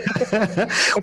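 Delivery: a quick, high real laugh; short amused laugh. Real, not acted. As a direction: laugh along at the joke. Listener laughs at the joke.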